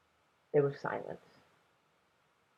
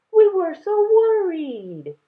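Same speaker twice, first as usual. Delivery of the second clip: lightly voiced grandfather; 8 dB louder, slower than usual. Grandfather relieved.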